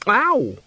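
high, sudden "ow"; acted pained yelp. Nanny is elbowed by Granny, high acted yelp. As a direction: cut yourself off with a yelp.

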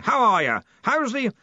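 high, hearty holler; yelling. A narrator's reading. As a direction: call out questions across a distance. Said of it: "yelled Ridcully".

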